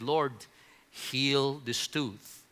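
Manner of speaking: hushed, drawn-out prayer for healing. Retold or imitated. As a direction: whisper it to God as a plea. Praying to God in pain.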